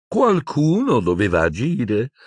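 high, slow, sighing self-justification; villainess exhaling words. A narrator's reading. Umbridge defending the attack, slow exhaled drawl. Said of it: "esalò la Umbridge".

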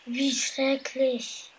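mild dismay. Acted. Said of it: "rief Nashorn".

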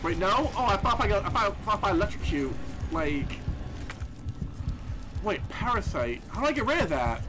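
ordinary talk

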